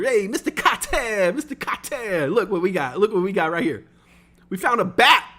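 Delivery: high, eager, showing off a find; proud kids calling the teacher over. Retold or imitated.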